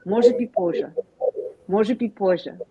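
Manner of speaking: Russian może być pozже, moh-zheh bit POH-zheh; Russian pronunciation. Shown as a demonstration. Teacher demonstrating Russian phrase to the room. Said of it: "And in Russian, you say".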